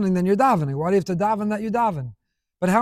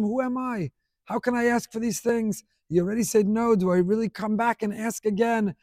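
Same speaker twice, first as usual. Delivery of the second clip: hesitant, reluctant; 3 semitones higher, 3 dB quieter than usual. Acted. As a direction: ask as if reluctant to approach. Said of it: "sometimes we hesitate. We're reluctant to approach".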